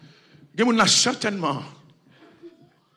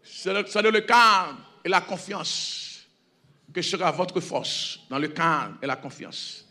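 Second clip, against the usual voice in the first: hushed closing verse; 4 semitones lower, 9 dB quieter than usual. Acted. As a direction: let the sermon settle into calm. (verset final murmuré lentement)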